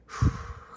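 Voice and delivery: exasperated puff of breath; reluctant, audible exhale; bracing sigh. Acted. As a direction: breathe out before trying harder. Pappy gathers himself to obey.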